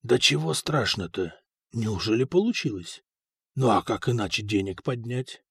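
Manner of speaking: low, subdued talking to himself; lightly voiced inner monologue; old card sharp's thoughts. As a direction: mull it over quietly. Фока talks to himself.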